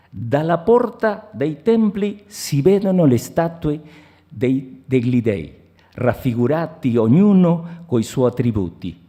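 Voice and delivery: measured, declaimed Italian prose; literary reading in Italian. Acted. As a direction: read the Italian passage aloud with deliberate phrasing. Reads Italian literary passage aloud.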